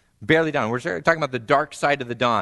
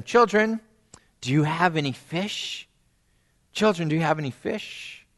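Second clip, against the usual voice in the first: calling out; 4 semitones higher than usual. Acted. Voices Jesus calling from shore.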